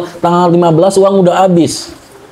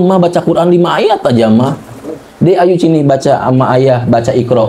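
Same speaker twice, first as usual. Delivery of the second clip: lightly acted coaxing, voice sinking low; mock husband inviting his family to read; gentle coaxing husband; 5 semitones lower than usual. Acts husband coaxing wife and child.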